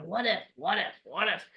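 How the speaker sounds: whisper-worry it to yourself; quiet fretting what-ifs; worried murmur. Retold or imitated. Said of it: "that what if that's always talking".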